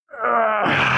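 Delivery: high, drawn-out groan; exasperated groan. Retold or imitated. Vlogger recalling his brain's old voice, exasperated groan. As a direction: let out a long, high groan mid-sentence.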